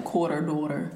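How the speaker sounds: QUARTER and DAUGHTER with a sounded final "r"; words ending in ER. Shown as a demonstration. Speaker showing her ER words, final r sounded in QUARTER, DAUGHTER. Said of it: "end in E R".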